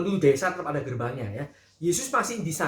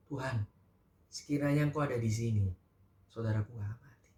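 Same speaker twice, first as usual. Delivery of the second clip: much softer, hushed, lower lament; quiet weeping; 5 semitones lower, 5 dB quieter than usual. Acted. Maria at Jesus' feet, quietly weeping the same words. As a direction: murmur it through tears, barely audible. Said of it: "Sambil dia menangis".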